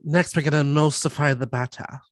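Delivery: mock-seductive, lingering over the food words; playful sexy cooking-show parody; Nigella Lawson. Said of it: "She's like".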